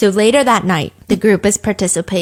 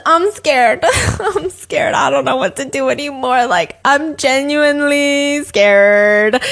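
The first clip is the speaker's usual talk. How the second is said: mock scared; 3 semitones higher, slower than usual. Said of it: "went from being angry to just".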